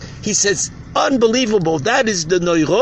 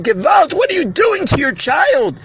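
high, raised voice of alarm; horrified outcry; 7 semitones higher, 3 dB louder than usual. Retold or imitated. Outsider confronting a father hurting his child, horrified. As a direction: cry out in shocked disbelief.

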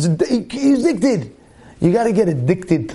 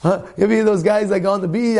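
ordinary talk, nothing marked

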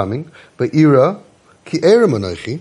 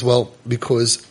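ashamed Adam; 5 semitones lower, slower than usual. Acted. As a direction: mumble it out in shame. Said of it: "So Adam says".

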